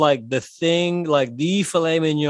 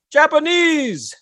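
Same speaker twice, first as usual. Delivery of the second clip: high shouted heckle from the crowd; heckler shout; 12 semitones higher, slower than usual. Retold or imitated. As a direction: yell it out from the audience. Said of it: "someone shouts out".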